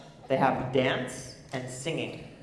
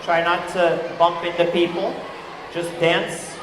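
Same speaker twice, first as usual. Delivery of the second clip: raised voice over the music; calling out loud; 2 semitones higher, 4 dB louder than usual. Real, not acted. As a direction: call it out to the whole room. Calling out to a dancing crowd.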